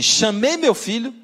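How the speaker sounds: mother recounting how she confronted her son; indignant old mother. Retold or imitated. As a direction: lean on it like an offended mother. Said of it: "Ela diz assim".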